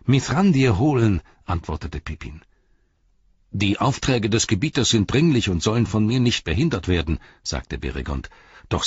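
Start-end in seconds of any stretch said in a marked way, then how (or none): 0.0-1.2 loud, high hurried reply; raised urgent voice; calling back. Acted. Pippin calls back while running. 3.5-7.2 lightly voiced guard, pitched up; a touch of formal urgency; dutiful guard Beregond.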